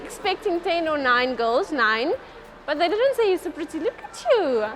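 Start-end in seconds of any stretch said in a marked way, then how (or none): 2.7-4.7 high-pitched, cooing compliment; gushing admiration. Real, not acted. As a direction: fuss admiringly over the audience. Keeps gushing over the girls.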